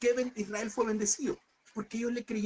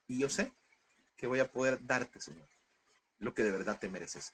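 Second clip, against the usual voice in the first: softly retelling a private prayer, sinking lower toward the end; retold humble prayer; 5 semitones lower, 4 dB quieter than usual. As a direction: recount a personal plea to God, gradually lower. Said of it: "lo que yo le dije en mi oración". (oración humilde, contada en voz más baja)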